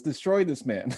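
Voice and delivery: a mock-menacing order, breaking into a laugh; laughing mock threat. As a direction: play the mentor's imagined threat through laughter. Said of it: "I think his first impulse was".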